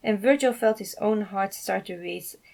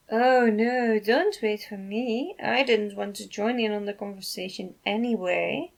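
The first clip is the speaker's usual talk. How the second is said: sarcastic drawl; 2 semitones higher than usual. Acted. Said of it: "Janice drawled".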